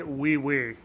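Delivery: "Oui, oui" with only a light French accent; understated French accent on "Oui, oui"; just a hint of French in "Oui, oui". Shown as a demonstration. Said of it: "not with somewhat of a French accent".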